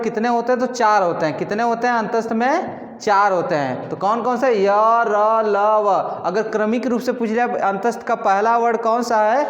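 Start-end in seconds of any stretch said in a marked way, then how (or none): 4.5-6.2 "र, ल, व" said very slow and separated; slow listing. Shown as a demonstration. Teacher listing the antastha letters slowly for students. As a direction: tick them off one by one, slowly.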